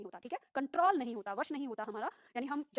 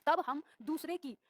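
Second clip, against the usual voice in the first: slow reading; slower than usual. Shown as a demonstration. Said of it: "तीसरा देखते हैं".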